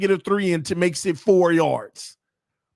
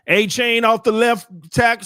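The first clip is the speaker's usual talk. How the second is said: live play-by-play; 7 semitones higher, 5 dB louder than usual. Real, not acted.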